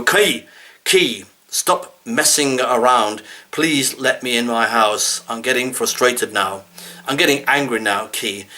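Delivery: mildly heated plea to a stuck key; mock angry. Scolding the stubborn key in a mild mock-angry tone. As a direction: raise it, half-exasperated, then let it sag. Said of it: "then you get angry with the key".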